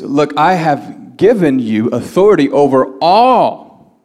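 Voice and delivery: weighty, slow stress landing on "all"; emphatic scripture reading. Acted. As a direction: stretch "all" out long and strong. Reads Jesus' words with force.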